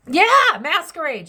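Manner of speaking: sudden high loud yeah at a card; a startled cry of recognition; surprised yelp. Real, not acted. Reading tarot to viewers, she yelps at a card.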